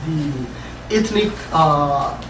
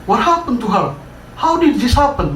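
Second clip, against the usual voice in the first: high, mildly raised cry of shock; a read-aloud hint of panicked disbelief; shocked yell; 5 semitones higher than usual. Makbub sees the dead woman, mock shocked yell. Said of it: "Makbub yelled, overwhelmed with shock".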